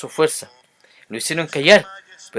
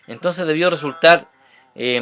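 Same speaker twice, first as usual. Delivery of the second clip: normal talking voice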